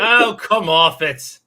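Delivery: drawn-out, mock British "come off it"; British accent. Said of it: "In a British accent?".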